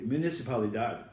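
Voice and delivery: "Municipalidad" with Spanish vowels, stress on the final "dad". Shown as a demonstration. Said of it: "I said it correctly".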